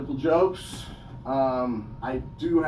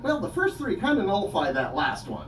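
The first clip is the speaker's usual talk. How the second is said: rising into a higher, louder laugh; amused at the logic; laughing aside; 6 semitones higher, 4 dB louder than usual. Retold or imitated. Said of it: "And I was like".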